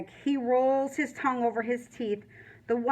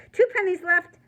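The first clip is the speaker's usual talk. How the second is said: higher, louder, insisting on the count; insistent, arguing; 3 semitones higher, 4 dB louder than usual. Acted. Natalie insisting on the leftover pennies, stubborn. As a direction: repeat it like someone is arguing your math. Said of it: "like someone is arguing with her math".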